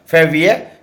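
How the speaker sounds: फेवियर said the French way, as fé-vi-yé; French word for February. Shown as a demonstration. Father teaching his son the French month name, said clearly. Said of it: "ये French में है".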